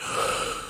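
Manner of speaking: wide, breathy yawning intake. Shown as a demonstration. Singer demonstrating a yawn for the interviewer, yawning breath. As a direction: draw in a big demonstrated yawn. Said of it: "When you yawn, you know, like".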